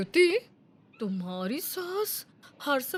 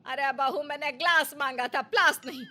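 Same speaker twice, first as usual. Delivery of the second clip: raised voice after her; mother-in-law calls loudly after her daughter-in-law; calling loudly; 4 dB louder than usual. Acted. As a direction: call out so she hears. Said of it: "जोर से कहती है".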